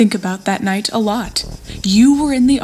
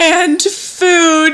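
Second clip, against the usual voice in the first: excited cry; 8 semitones higher, 4 dB louder than usual. Acted. Hungry girl cheers at food.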